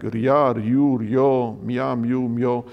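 "ria, riu, rio, mia, miu, mio" each run together as one syllable; one-syllable glides. Shown as a demonstration. Lecturer demonstrates double syllables, each said as one gliding syllable. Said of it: "złożona jest w wymowie jedna sylaba".

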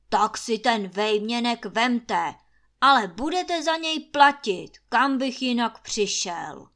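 grudging shout. Acted. Master grudgingly gives in.

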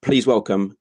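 announcer introducing a guest; show host introduction. Real, not acted. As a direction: build up the name with pauses.

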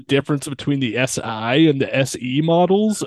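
lightly voiced snob, mock disbelief; snooty car guy. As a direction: look down on the clueless with mild mock snootiness. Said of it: "they're, like, super snooty about it".

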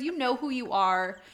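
calling out fans. Real, not acted. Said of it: "y'all Celaena shippers".

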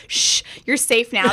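mock soothing hero. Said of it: "he does a".

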